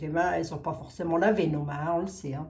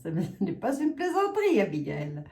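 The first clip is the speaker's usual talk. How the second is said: giggling while repeating it; laughing. Real, not acted. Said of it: "elle me remet en place".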